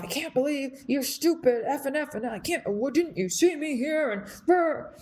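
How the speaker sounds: mild mock yell, trailing into blustery noise; imitated angry ranting. Truck driver going off at dad, mock ranting. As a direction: run through his rant without really shouting. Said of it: "this guy is just, like, screaming".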